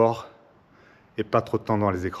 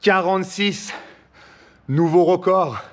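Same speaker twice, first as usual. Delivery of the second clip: triumphant shout; 6 semitones higher, slower than usual. Real, not acted. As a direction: celebrate the new record. Finishing push-up record attempt.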